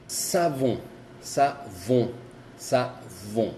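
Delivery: savon with a drawn-out nasal end; French savon, exaggerated. Shown as a demonstration. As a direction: savon as sa-vo, nasal vowel held. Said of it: "Acuérdense, exagerar".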